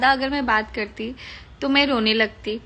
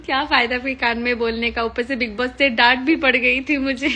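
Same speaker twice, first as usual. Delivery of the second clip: quick, giggly telling of the scolding; laughing; 5 dB louder than usual. Real, not acted. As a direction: laugh it off while explaining. Laughing over being scolded. (हँसते-हँसते बताना)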